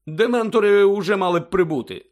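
high, loud anxious remark; impatient. A narrator's reading. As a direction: fret about the delay. Fudge anxious for Dementors.

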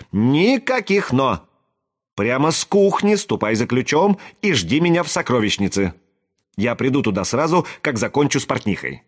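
lightly acted princess brooking no argument; imperious princess. A narrator's reading. Princess cuts off objection, gives orders.

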